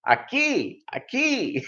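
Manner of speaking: high, soft, gentle repeat; soft patient Spanish. Retold or imitated. Customer answering the cashier softly in Spanish. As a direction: say it sweetly.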